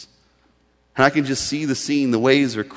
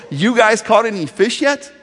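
loud, higher call across the water; calling out from shore; 7 semitones higher, 5 dB louder than usual. Retold or imitated. Jesus calling to the fishermen, a loud call from shore. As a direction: yell it to the boat. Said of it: "that's what he yells from the shore".

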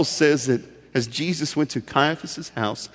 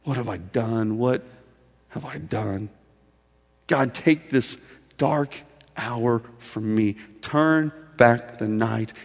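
Peter's anguished prayer; 3 semitones lower, 5 dB quieter, slower than usual. Retold or imitated. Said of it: "he weeps for himself".

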